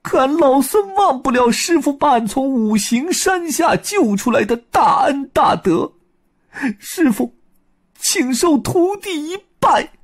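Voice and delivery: high, bright-voiced Monkey King bowing to his master; high Monkey King voice, parting from his master. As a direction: play the Monkey King, grateful and sad. Sun Wukong voice, tearful farewell.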